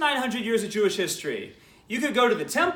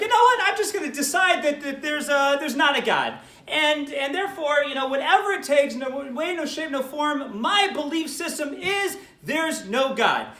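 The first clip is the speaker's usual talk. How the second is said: hammed-up closed-minded skeptic, slowing on the key claims; stubborn atheist; 4 semitones higher than usual.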